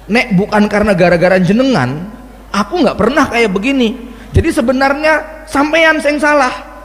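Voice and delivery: sweet apology that turns on him; mock apology turning to blame. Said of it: "istri sungkem cium tangan suami pas Idul Fitri". (istri pura-pura minta maaf lalu menyalahkan suami, makin keras)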